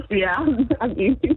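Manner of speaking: talking while chewing; words round a bite of food; mouth full. Real, not acted. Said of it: "Are you chewing on food right now".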